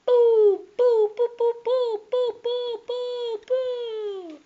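high, loud sing-song boo chant; mock booing. Player booing his bad luck in high sing-song jeers. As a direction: jeer like a playful crowd. Jeering at his own game.

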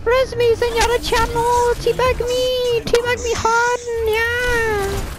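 Mercy voice. Pretend. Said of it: "This is the Mercy voice!".

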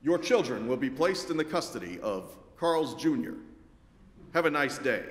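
flat machine voice announcing; robot voice. Retold or imitated. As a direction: speak like a kiosk robot. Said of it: "it says in its robotic voice".

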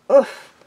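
short, loud grunt of impact; winded oof. Acted. Firepaw swiped by a hefty paw, oof. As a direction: take a blow on an oof.

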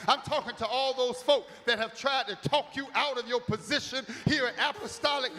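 rising exhortation. Real, not acted. Pastor exhorting the congregation.

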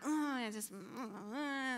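wordless mock fuming, drawn out; acted-out inner tantrum; triggered grumbling. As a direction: grumble and groan through your irritation. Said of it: "I get triggered. I'm thinking about".

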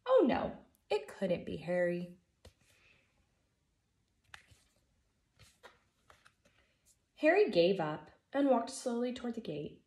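put-on lively storybook reading for kids; gentle read-aloud for a class; reading to children. A narrator's reading. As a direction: read it like story time for first graders. Teacher reads picture book aloud.

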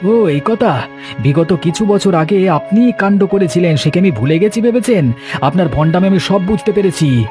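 angry accusation. Acted. Householder exposing the holy man's past, indignant and high-pitched.

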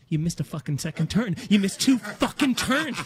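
seething mock anger, punching the swear; quiet mad. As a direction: imitate someone holding in fury. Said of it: "quiet mad".

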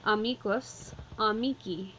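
amicus with the stress on mi. Shown as a demonstration. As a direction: say amici stressing the mi. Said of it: "Our emphasis is put on the me".

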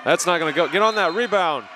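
high excited play call. Real, not acted. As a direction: urge the rebound, rising. Live call of a miss.

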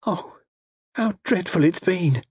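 high, slow, tearful lament; distressed young lady, near tears; little sob. A narrator's reading. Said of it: "Frida gave a little sob".

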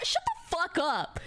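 stuffy sick voice; talking through a cold. Real, not acted. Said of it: "Listen to me".

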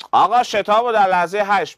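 high, loud student calling out to the teacher; eager student. Acted. A student calls out to the teacher, eager and loud. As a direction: call out like a keen pupil with his hand up. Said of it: "دانش آموز".

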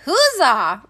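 loud, swooping hurrah; loud cheer. A narrator's reading. The townspeople hearing of the coming child, loudly cheering. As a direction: cheer like a whole town. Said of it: "A loud".

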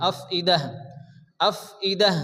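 আফইদাহ stopped with a breathed h; final ta as ha. Shown as a demonstration. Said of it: "তাটা হা হবে".

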